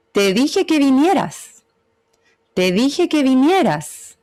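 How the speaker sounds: "Te dije que vinieras" slow, rising then flat, falling at "vinieras"; slow scolding reminder, falling at the end; like an order; firm reproach. Shown as a demonstration. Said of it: "Voy desde abajo hacia arriba, plano, y después bajo y subo".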